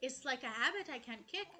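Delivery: lightly put-on accent for a game character's lines; Jacques in accent. Streamer reading a French DJ character's chat aloud, in a light put-on accent. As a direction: read it out playfully in a slight put-on accent. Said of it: "I don't know why I've started doing an accent".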